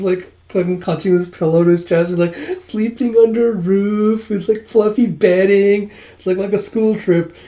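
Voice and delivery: high, amused squeeing; tickled, high-pitched delight; giddy gushing. Retold or imitated. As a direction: gush over the sleepover. Giddy character enjoys sleepover, teller amused.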